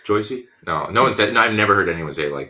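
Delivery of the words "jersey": "Joycey" with the R dropped, New Jersey style; put-on New Jersey "Joycey" for Jersey; exaggerated New Jersey vowel in "Joycey"; New Jersey accent. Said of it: "I have to drop my R's".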